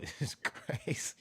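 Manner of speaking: breathy, slow whisper. Real, not acted. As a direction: whisper it in disbelief. Whispered repeat after laughing.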